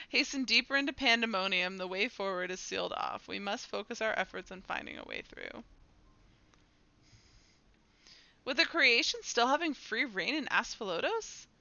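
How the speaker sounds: formal game-character delivery; dramatic dialogue reading. Acted. Characters plan a way through Pandemonium, formal dramatic reading. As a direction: read it as planning the next move.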